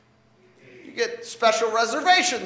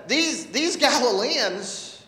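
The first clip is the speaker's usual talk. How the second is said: urgent, higher-pitched call to repent; preacher voicing a stern warning; Jesus admonishing; 5 semitones higher than usual. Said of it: "he has a really curious reaction. He says".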